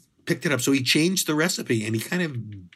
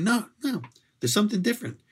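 high insistent protest; 8 semitones higher than usual. Retold or imitated. Brother argues pizza changed.

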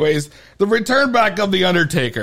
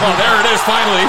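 louder, relieved outburst; relieved exclamation; 5 dB louder, much faster than usual. Real, not acted. Host relieved the clip finally plays, loud outburst. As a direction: let out the relief.

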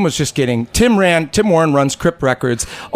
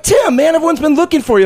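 exasperated call; 12 semitones higher than usual. Retold or imitated. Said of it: "I'm like".

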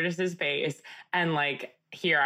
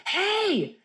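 high, sharp imitated "hey"; retold shout, pitched far up; mock shout. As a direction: imitate a man telling off noisy kids. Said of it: "super loud and goes".

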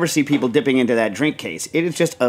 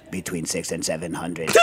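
low, quiet, laughing deadpan; deadpan through laughter; 7 semitones lower, 8 dB quieter than usual. Retold or imitated. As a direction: repeat the same answer, laughing. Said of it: "And then Jack goes".

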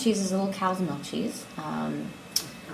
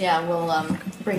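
words round a bite of cheese; mouth full. Real, not acted. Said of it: "You're good at talking with cheese in your mouth".

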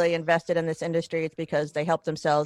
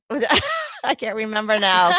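higher, louder, breaking into laughter; laughing; 4 semitones higher, 5 dB louder than usual. Real, not acted. Interviewer forgets the story she asked about, laughing. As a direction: laugh through admitting the lapse.

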